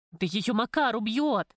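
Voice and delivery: громче и медленно, с напором; перебей с тревогой, не спеша; встревоженно влезла. Acted. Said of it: "опять влезла Любка". (Любка громко и медленно влезает в разговор)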